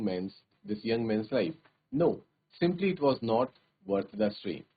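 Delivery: slow, measured reading of the English text; story narration. A narrator's reading. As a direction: read it out slowly for the class. Reads the story aloud. (धीमी कहानी पढ़ने की आवाज़)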